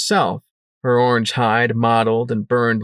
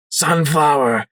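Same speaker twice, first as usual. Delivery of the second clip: plaintive wail; 5 semitones higher, slower than usual. Acted. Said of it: "wailed Sanguine plaintively".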